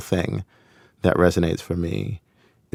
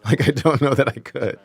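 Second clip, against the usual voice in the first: laughing. Real, not acted. Laughing at own opinion.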